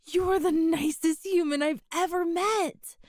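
overjoyed, loud thanks; excited gush. Acted. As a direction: gush with happy disbelief. Stray overjoyed to be kept.

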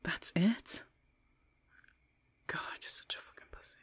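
soft, whispery grumble; scornful undertone. Acted. Girlfriend to herself about her boyfriend, scornful undertone. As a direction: grumble it under your breath. Muttered insult after a quarrel.

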